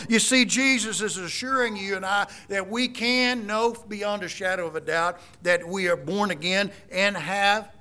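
normal talking voice

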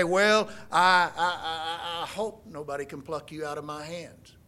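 halting, unsure stammer, fading away; a mocking take of a hesitant promise; mock hesitant Jesus. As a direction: stumble over it like you doubt yourself. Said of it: "He doesn't say".

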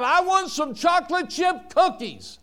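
high-pitched imitation of a demanding child; crying out. Little boy in the cookie aisle begging his mother, crying out. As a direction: cry out like a pleading little boy. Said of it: "he cried out".

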